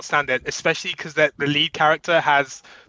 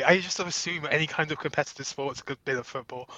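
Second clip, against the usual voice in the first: put-on British accent; faster than usual. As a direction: play the clueless Brit. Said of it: "lay it on very thick".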